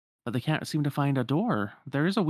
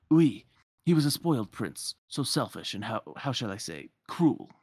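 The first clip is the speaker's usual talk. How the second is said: put-on French accent. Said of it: "I can't do a French accent".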